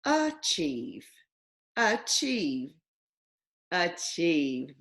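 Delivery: "Achieve" with a schwa, uh-chieve; correcting the vowel; flexed to schwa. Shown as a demonstration. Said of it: "Let's flex this word".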